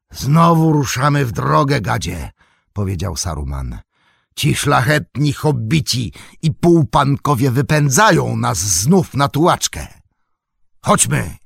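bitter wizard mockery. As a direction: sneer at the noble hobbits. Saruman mocks hobbits.

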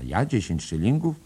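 high, loud, fast protest; indignant outrage. A narrator's reading. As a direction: scoff at the price. Bloom indignant at price.

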